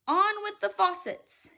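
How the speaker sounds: loud, high booming shout. Acted. Cloud man ordering the rain, loud high shout. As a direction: bellow the order from the sky. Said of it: "it shouted".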